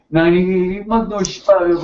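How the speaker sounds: lightly imitated Bavarian German accent; a touch of German accent. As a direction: mimic a Bavarian speaking accented English. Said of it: "in, in, in accent".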